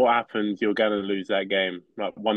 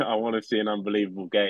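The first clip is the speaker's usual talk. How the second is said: laughing; faster than usual. Real, not acted. Retakes the line while laughing.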